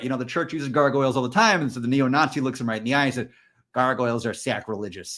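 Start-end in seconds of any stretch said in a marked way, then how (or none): 3.7-5.2 imitating a hardcore Midwest accent, low and soft. Retelling a roommate's objection to a gargoyle, Midwest accent. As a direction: put on a lower-pitched Midwestern voice. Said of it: "that really hardcore, uh, Midwest, uh, accent".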